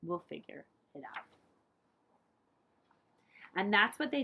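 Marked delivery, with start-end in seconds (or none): 0.0-1.2 softer, lower tender whisper. A narrator's reading. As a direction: whisper it gently. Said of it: "They smiled and whispered".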